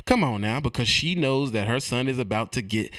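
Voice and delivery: normal talking voice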